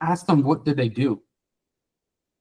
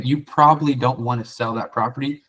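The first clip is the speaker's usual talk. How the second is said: going negative. Shown as a demonstration. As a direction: say it as if you expect a no. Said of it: "you're going negative".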